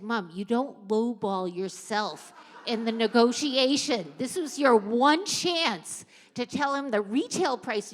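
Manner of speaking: pressing her hard on the bargain; exasperated scolding. Retold or imitated. Daughters scolding mom over pants.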